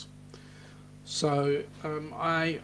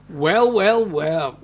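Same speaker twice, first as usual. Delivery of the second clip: much louder, pleased hello; delighted greeting; 8 dB louder, much slower than usual. Real, not acted. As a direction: welcome a friend who just showed up. Greeting new viewer joining.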